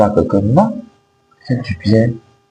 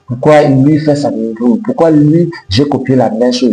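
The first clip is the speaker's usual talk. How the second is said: frustrated; 5 semitones higher than usual. Retold or imitated. Imagined frustrated self-questioning.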